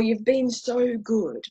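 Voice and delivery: slow, lightly voiced tempter; little inner voice. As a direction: coax gently, drawing the words out. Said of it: "we have this little voice".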